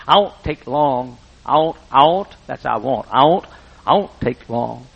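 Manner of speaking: slow, halting country voice; lightly voiced nervous old farmer; Wood stammering nervously. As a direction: stumble over the promise out of shyness. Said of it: "he talked like this".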